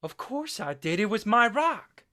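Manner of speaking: loud, raw self-blaming cry, slowing down at the end; anguished outburst. Acted. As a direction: shout the guilt out, breaking open. Boy blames himself for brother's death.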